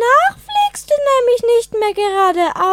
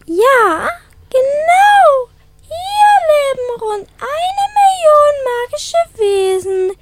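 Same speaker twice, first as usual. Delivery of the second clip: wailing ghost; 2 semitones higher than usual. Acted. Geist zeigt Gruselstadt.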